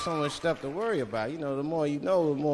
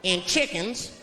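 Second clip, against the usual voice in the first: condescending Southern waiter. Retold or imitated. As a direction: talk down like a knowing local. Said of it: "He looked at me like I was crazy".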